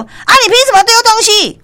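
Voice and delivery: sharp high angry outburst; angry retort. Retold or imitated. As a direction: snap back furiously at the customer. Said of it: "即摆店长就抓狂啊". (店长抓狂地高声反问)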